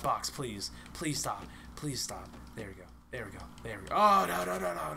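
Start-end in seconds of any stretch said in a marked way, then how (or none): 3.9-4.9 high, rapid string of alarm. Real, not acted. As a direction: burst out high, then fade. Things going wrong in the game.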